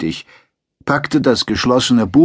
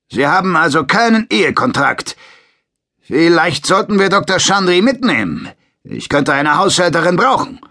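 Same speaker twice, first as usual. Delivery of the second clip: much higher, louder taunting soldier; leering sergeant; 9 semitones higher, 4 dB louder than usual. A narrator's reading. Sergeant threatens to take Yumeko away, mock leering. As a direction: taunt him by eyeing his partner.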